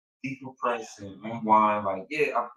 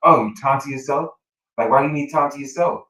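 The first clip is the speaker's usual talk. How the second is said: louder, mocking wife voice; mock nagging wife; 8 dB louder than usual. Wife refuses to leave husband alone in car, loud and mocking. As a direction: scoff at him, then insist on staying.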